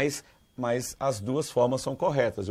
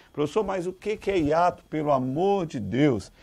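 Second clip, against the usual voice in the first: mock exasperated student; 3 semitones higher, 4 dB louder than usual. Student begging the teacher to explain hiato, mock exasperated.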